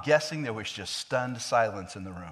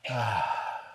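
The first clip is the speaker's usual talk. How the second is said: implied sigh; 3 semitones lower than usual. Retold or imitated. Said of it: "the sigh is implied".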